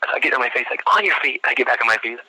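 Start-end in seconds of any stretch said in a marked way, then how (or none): 0.9-1.4 high, sharp military order; drill-instructor command. Retold or imitated. Sergeant ordering the candidate up from the floor, high mock yell.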